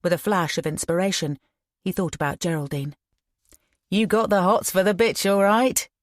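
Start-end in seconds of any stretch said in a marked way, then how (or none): 3.9-5.9 leering. A narrator's reading. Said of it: "leering at Ian".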